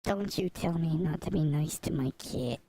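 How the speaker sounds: put-on New Yorker talking back; New York accent. Streamer warning off critics of cat kindness, New York accent. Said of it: "why that requires a New York accent".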